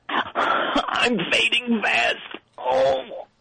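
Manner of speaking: milk the last words like a bad movie; overacted death scene. Mock dying speech.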